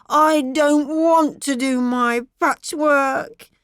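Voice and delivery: put-on cross little girl refusing; vehemently cross. A narrator's reading. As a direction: stamp the words like a cross child. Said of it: "in a vehemently cross tone".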